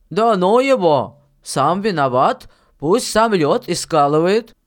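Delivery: lightly voiced miller, emphatic; forceful sceptical questioning; stern miller, challenging. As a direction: press the boy with objections.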